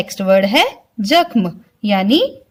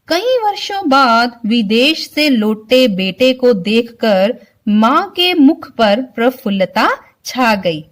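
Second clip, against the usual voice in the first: ordinary delivery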